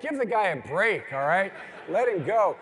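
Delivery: telling him off. Retold or imitated. Onlookers telling his friend to stop, loud and annoyed. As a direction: call out to lay off the poor guy. People scolding friend with ice pick.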